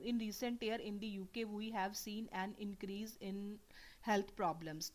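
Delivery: slow, whispered reading that drops the word mental; skipping a word. Shown as a demonstration. Teacher showing students how skipping a word sounds, whispered and slow. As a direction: read it under your breath and leave out mental. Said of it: "मैं यहाँ पे मेंटल को skip कर रही हूँ".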